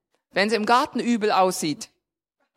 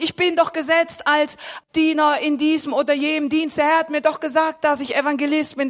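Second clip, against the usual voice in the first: raised, insistent listing of grievances; frustrated complaint; 4 semitones higher than usual. Acted. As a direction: protest as if promised more. Acted complaint, listing promised callings. (frustrierte, eindringliche Klage)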